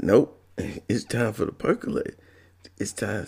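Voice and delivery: high, giggling sung hook; laughing taunt. Retold or imitated. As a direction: sing it through a laugh. Roommate laughing, singing the hook.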